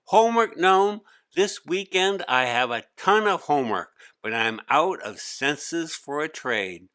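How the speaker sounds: put-on boy urgently asking the gnome for a trade; urgent plea. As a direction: beg the gnome for help, worried. Hari pleads with the gnome.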